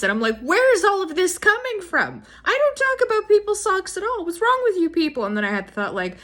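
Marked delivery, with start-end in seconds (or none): 0.4-5.2 higher, incredulous outburst; high exasperated disbelief; baffled. Retold or imitated. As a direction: sound truly baffled at them. Baffled retort in the story.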